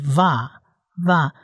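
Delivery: drawn out, slow va, va; slow syllable demo. Shown as a demonstration. Teacher slowly sounds out a Hebrew syllable for students. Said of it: "它发长啊".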